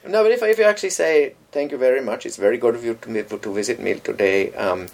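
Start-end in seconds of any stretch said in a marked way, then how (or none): 1.5-4.9 lightly imitated Indian accent; polite, understated mock-Indian accent. Host welcoming an imagined visitor, restrained Indian accent. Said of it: "an, an Indian accent".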